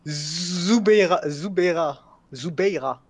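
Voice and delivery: "Zubeira" tried out syllable by syllable, first very drawn out; prononciation laborieuse. Real, not acted. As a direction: feel your way through the name "Zubeira". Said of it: "la prononciation, elle va faire mal". (« Zubeira » prononcé à tâtons, d'abord très étiré)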